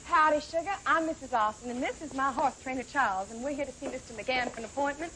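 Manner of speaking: a hint of a Texas heiress accent. Posing as a rich Texas heiress to the receptionist, light Texas accent. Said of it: "That accent".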